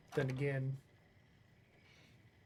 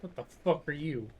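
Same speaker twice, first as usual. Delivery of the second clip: shocked; 3 semitones higher, 6 dB louder than usual. Real, not acted. Startled by mutated squirrel in game.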